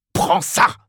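high, strained cry; shout. A narrator's reading. Ignatius strikes the policeman, shouting. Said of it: "cria Ignatius".

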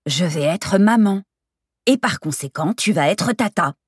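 emphatic, drawn-out good news; spelled-out announcement. Acted. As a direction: spell it out for a slow friend. Announces pregnancy to slow friend.

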